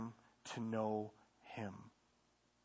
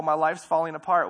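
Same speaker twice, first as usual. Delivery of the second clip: mock whine; 4 semitones higher, 11 dB louder than usual. Voicing a complaining believer.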